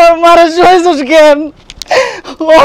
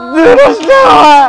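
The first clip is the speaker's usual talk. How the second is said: wailing plea; 4 semitones higher than usual. Acted. Son wails over dead mother.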